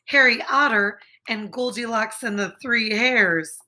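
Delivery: unvoiced whisper of titles; sharing favorite books, whispered.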